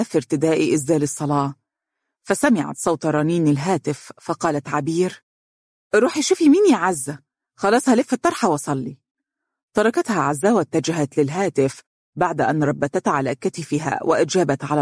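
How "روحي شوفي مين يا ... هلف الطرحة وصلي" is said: sister calling to Azza from the next room, raised and high. Acted. Abeer calls her sister to the phone, high and raised.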